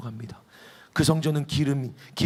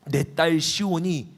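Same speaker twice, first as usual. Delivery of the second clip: slow; much slower than usual. Acted. God addresses the Assyrian king.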